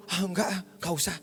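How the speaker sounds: soft mock-shy brush-off; understated, acted polite refusal; imitated bashful refusal. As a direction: play someone too embarrassed to accept, softly. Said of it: "Saya nggak akan malu".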